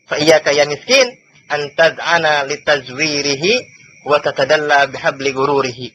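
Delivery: slow, measured chanting of Arabic text; Arabic recitation. Acted. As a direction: intone the hadith slowly and evenly.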